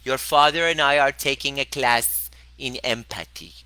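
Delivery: mocking mom impression; imitating mom. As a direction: mimic mom's earnest tone. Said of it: "That's how my mom talks, exactly like that".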